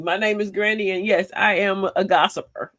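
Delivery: mock AA confession. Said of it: "in the A A meeting".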